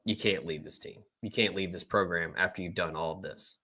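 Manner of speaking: low, subdued inner monologue; imagined self-talk. Retold or imitated. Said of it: "ultimately tell himself".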